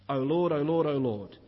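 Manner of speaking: a light pleading call, rising then falling away; imploring. Retold or imitated. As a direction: call out to God, gently begging. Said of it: "It's consistently David imploring".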